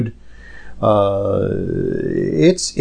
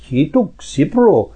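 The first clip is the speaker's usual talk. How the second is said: put-on strong Indian-Pakistani accent, pitched higher; 4 semitones higher than usual. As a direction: imitate the cab driver in a thick Indian-Pakistani accent. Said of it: "the strong, whatever, Indian, Pakistani accent".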